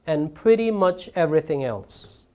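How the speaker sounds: "and pretty much everything else" read slowly, falling to close the list; slow model reading of "and pretty much everything else", settling at the end; list-closing intonation. Shown as a demonstration. Teacher finishes the parallel list example, closing intonation on "everything else". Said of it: "이렇게 항상 뒤에 오는 것들을".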